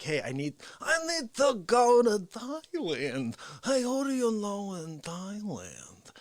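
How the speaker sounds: slow, drawn-out parody of a needy caller; Dick Fauci. Retold or imitated. Fauci asking for a contact in Thailand, Fauci impression. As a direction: stretch it out high and pleading. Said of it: "Fauci was like".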